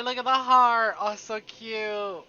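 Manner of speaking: put-on high, loud girlish gushing, the last bit slow; gushing delight. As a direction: squeal over something cute. Character gushing over a gift.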